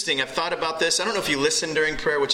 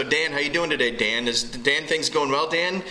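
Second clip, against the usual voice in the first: mock overuse of name.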